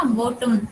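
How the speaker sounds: बॉटम run together, no full vowel before the m; second vowel dropped. Shown as a demonstration. Teacher showing an unpronounced vowel, बॉटम with its second vowel left out. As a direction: let बॉटम end straight on a syllabic m. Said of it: "vowel को pronounce नहीं किया गया".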